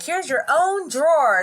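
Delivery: slow, emphatic parent laying down "own"; stress on own. Retold or imitated. Parent dividing up the kids' clothes, "own" stretched out. Parent retelling rule to sons.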